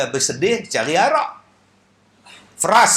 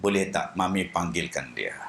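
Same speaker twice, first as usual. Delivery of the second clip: put-on blind old Kasim; 9 semitones lower, 5 dB quieter than usual. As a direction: drop low to play blind Kasim. Blind Kasim asks his mother. (suara Kasim yang buta, rendah)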